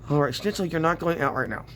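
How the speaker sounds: talking with a pin in mouth; mouth full. Real, not acted. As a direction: speak around a pin held in the lips. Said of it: "Sorry, I had a pin in my mou".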